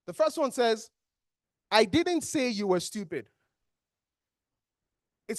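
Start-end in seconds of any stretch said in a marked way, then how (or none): 1.7-3.3 emphasis on SAY in an even-paced sentence; stress on SAY. Shown as a demonstration. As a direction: put the weight on "say". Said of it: "What exactly are you putting emphasis on?".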